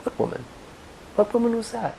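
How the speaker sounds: acted groggy question; sleepy monk. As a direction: ask it as if half awake. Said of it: "Sleepy monk says".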